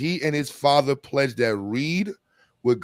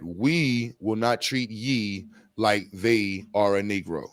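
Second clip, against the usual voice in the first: British cousins; 5 semitones lower, 5 dB quieter, slower than usual. Acted. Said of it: "your British cousins from around the corner".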